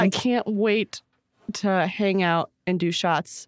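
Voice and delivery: very slow, holding in giggles; trying not to laugh. Pretend. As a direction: stretch it out, suppressing laughs. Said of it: "I'm already laughing".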